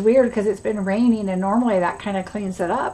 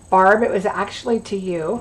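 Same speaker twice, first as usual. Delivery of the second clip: ordinary delivery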